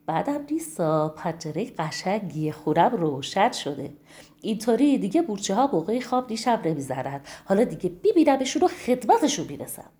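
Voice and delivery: pleased mouse, quickening at the end. Acted. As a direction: mouse delighted with his new window. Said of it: "نگاه کرد و گفت".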